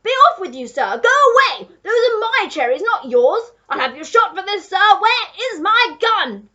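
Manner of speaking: high, very loud outraged ranting; duke shouting. A narrator's reading. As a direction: roar at a thief and demand your weapon. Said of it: "the Duke was shouting".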